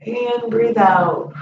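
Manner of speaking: calm slow yoga instruction; slow exhale cue. Shown as a demonstration. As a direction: stretch the words over a long out-breath. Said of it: "yoga cue paced to exhale".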